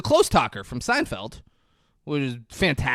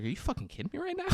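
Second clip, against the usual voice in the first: pitched way up and fast, squeaky indignation; high squeaky outrage; 13 semitones higher, 10 dB quieter, faster than usual. Retold or imitated. Dad squeaks in disbelief at his ex-wife. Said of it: "He's like".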